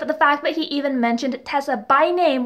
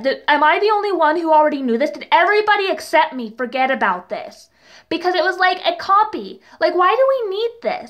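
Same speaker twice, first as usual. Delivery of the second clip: exasperated disbelief; 4 semitones higher than usual. Real, not acted. Ranting about repeated exposition.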